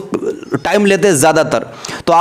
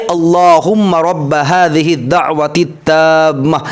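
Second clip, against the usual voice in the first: slow dua recital; slower than usual. Shown as a demonstration. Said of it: "आसान अंदाज आपको समझाने".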